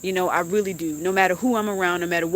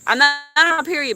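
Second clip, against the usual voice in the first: fast, louder, higher quick denial; defensive aside; 6 semitones higher, 6 dB louder, faster than usual. Real, not acted. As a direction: rush to deny it. Defensive clarification.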